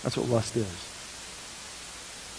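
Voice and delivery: breathy whispered verdict, very slow; hushed whisper. Acted. Preacher warning the congregation, hushed whisper. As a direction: drop to a whisper to land the point. Sermon climax, near whisper.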